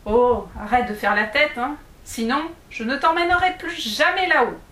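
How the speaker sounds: mildly annoyed dwarf. Acted. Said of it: "que ce comportement commençait à agacer".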